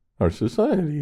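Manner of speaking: very high voice, cracking and breaking. Starting to talk to an audience about a topic, voice cracking. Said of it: "as I break with my voice".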